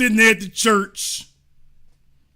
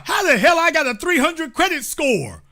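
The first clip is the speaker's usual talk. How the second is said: mock teen outrage; 6 semitones higher than usual. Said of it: "when it was time for you".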